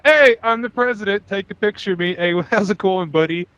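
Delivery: strut in like a president who knows it; swaggering president. Retold or imitated. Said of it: "walks in the room like".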